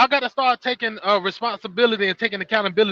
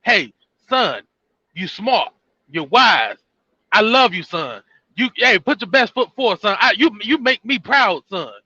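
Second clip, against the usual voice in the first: loving father. Pretend. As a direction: tell your son you're proud of him, gently. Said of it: "You didn't have a father to be like".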